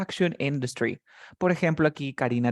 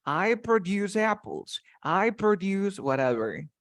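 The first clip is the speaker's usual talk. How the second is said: "produce" as a verb, pro-DUCE, in a slow sentence; teacher's slow example with "produce" stressed on DUCE; stress at the end; 3 semitones higher, slower than usual. Shown as a demonstration. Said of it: "The stress goes at the end of the word".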